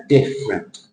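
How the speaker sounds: different, big DIFF and little rent, falling; low different in two beats; big-then-small word shape. Shown as a demonstration. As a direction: hit DIFF in different, shrink the ending. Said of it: "big square followed by a little square".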